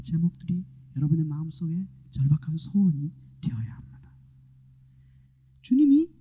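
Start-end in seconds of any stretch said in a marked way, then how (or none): 2.1-4.1 a low urgent whisper; intense whisper. Real, not acted. Preacher urging the congregation in an intense whisper. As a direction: whisper it like a secret plea.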